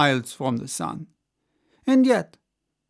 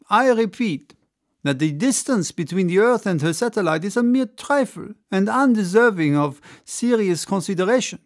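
orator's speech; 5 semitones higher than usual. Acted. Ardan lecturing the assembly, confident and rousing. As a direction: declaim to the crowd with growing conviction.

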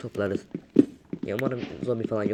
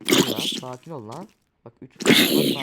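loud, panicky pleading; panicked shout; 9 dB louder than usual. Real, not acted. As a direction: yell in a panic at the mobs. Panicking at three mobs.

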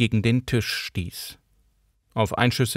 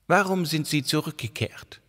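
calm question; 6 semitones higher than usual. A narrator's reading. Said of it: "fragte sie ruhig".

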